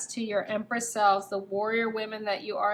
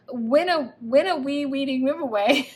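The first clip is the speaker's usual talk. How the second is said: giggling through a tongue-twisted flub; laughing slip-up; 4 semitones higher, 6 dB louder than usual. Real, not acted. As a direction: laugh at your own mix-up. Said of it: "Win a free reading giveaway".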